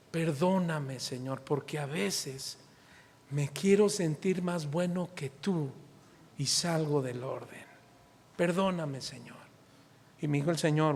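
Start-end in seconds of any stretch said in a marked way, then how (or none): 0.1-9.4 slow, soft, contrite plea to God; humble prayer. Retold or imitated. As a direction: pray quietly, ashamed and repentant. Retold prayer of repentance.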